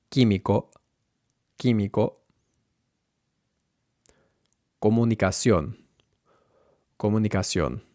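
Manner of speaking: Químico and Comunicación with unaspirated k; measured, falling Químico and Comunicación; no puff on k in Químico, Comunicación; Spanish k. Shown as a demonstration. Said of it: "Then the k sound".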